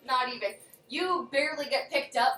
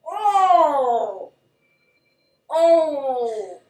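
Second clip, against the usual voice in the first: shocked gasp; 8 dB louder, much slower than usual. Real, not acted. Reacting to shocking dice mishap.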